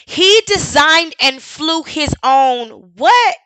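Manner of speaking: incredulous mock repeat. Mocking re-read of clip.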